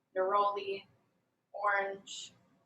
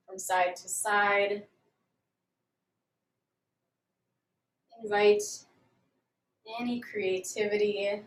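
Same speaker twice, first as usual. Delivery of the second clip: calm, measured yoga instructor voice; guided yoga. Real, not acted. Yoga teacher leading students through a grounding warm-up, calm guided delivery. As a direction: guide them gently through each movement, leaving long pauses.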